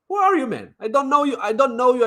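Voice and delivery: high, incredulous scoff; high mocking "who are you"; scornful. Real, not acted. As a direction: brush off the stranger with contempt. Scornful rant at a viewer.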